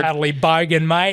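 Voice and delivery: broad bogan Australian accent, played for laughs; jokey Australian bogan accent. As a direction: put on a bogan Aussie twang. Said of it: "Bogan accent".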